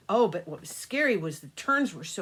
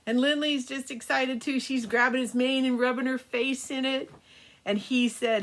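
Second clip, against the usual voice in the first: put-on storytelling to children. A narrator's reading. Grandma telling the grandkids a birthday story, gentle storytelling. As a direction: spin a bedtime tale for the grandkids.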